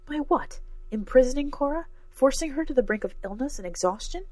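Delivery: high, rising incredulous questions; indignant disbelief. A narrator's reading. Cora silently challenges Professor's excuse, high indignant questioning. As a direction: pitch each question up in outrage. Cora's indignant thoughts in narration.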